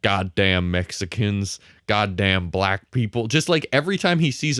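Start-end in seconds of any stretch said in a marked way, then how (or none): 0.0-3.3 put-on slow, lower grumbling old man; slow low grumble of a bitter old man; grumpy old racist. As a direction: growl it out slowly like a bitter old bigot. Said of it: "walking outside and going".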